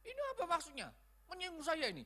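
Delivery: high-pitched mock indignation; offended. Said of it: "tersinggung orang yang bocor".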